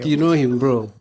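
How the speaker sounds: loud, knowing stress on "You know him"; emphatic. Retold or imitated. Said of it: "I know when you emphasize".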